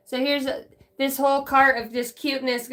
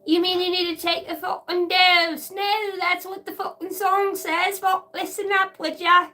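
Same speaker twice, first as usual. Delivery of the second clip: mock exasperation; 7 semitones higher than usual. Mock argument over lyrics.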